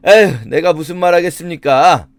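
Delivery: mock weary surrender to pressure; resigned sigh. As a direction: give in with a put-on sigh, as if browbeaten. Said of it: "이런 식으로 말하는 거다". (체념한 척 한숨 섞인 말투)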